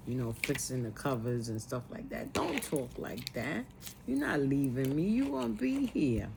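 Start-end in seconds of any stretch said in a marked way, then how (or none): 2.3-6.3 soft imitated plea, lifting at the end; retold tender pleading. Daughter pleading with dying mother, retold softly. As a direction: gently refuse to let her go.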